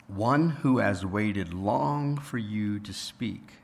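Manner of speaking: slow, unhurried voice of a huge unseen creature; a hint of a great beast speaking slowly; large deep voice. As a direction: speak slowly, as something vast and patient. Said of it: "very large and deep".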